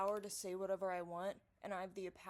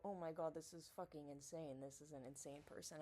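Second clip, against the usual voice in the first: mock shocked reader; 6 semitones lower, 8 dB quieter than usual. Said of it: "people can go ... and go".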